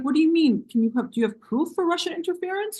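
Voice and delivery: mock journalist. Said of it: "were like".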